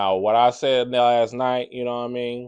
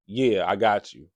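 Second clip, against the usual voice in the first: slow, offhand "Yeah, I got you"; mock casual brush-off; dismissive yeah; 3 semitones lower than usual. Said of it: "It's how you said it".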